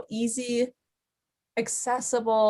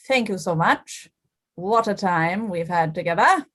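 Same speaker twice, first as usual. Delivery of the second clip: put-on slightly British accent. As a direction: thank the audience as a slightly British puppet. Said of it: "has a slightly British accent".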